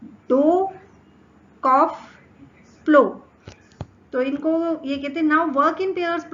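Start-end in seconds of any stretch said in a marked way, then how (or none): 0.0-0.7 डो said with a long o sound, slightly raised; clear demo of dough. Shown as a demonstration. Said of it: "डो में ओ का sound आता है". 1.6-2.0 कॉफ said with an off sound at the end, slightly louder; clear demo of cough. Shown as a demonstration. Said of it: "कॉफ में ऑफ का sound". 2.8-3.2 प्लो said as plaow, rhyming with bow, louder; clear demo of plough. Shown as a demonstration. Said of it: "प्लो में आओ का, प्लाओ का sound".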